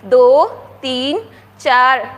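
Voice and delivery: slow drawn-out counting, loud on each number; slow counting aloud. Shown as a demonstration. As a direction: count carefully for children. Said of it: "वापस counting करते हैं". (धीमी, ज़ोरदार गिनती)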